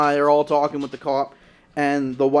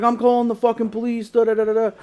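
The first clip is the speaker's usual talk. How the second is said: mock angry threat; 6 semitones higher, faster than usual. Retold angry threat to call police.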